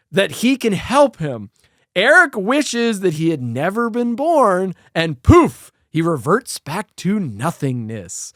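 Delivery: measured, emphatic storytelling read; plot recap narration. A narrator's reading. Host recaps the film for listeners, measured narration. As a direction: narrate the plot slowly with punched key words.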